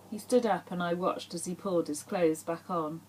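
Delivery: measured, intimate audiobook reading; story narration. A narrator's reading. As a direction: read the chapter aloud with even, falling phrases. Reads her novel aloud.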